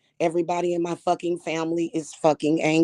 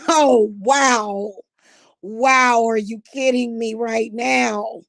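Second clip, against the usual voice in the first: outraged disbelief; 3 semitones higher, 4 dB louder, slower than usual. Real, not acted. Disbelief at abuser.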